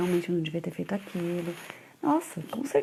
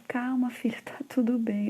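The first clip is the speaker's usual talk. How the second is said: soothing whisper; 4 semitones higher than usual. Retold or imitated. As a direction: hush a crying child gently. Mother comforting crying son.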